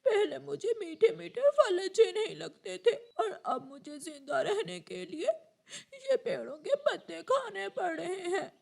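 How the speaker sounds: speaking through sobs; regretful little crow crying; weeping with remorse; tearful. Acted. Crow eats leaves, weeping.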